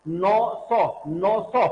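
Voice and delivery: नौ and सौ said evenly in turn, tongue near the gum ridge; alveolar sounds. Shown as a demonstration. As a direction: alternate नौ, सौ to show one tongue position. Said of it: "हम अगर एक साथ बोलेंगे".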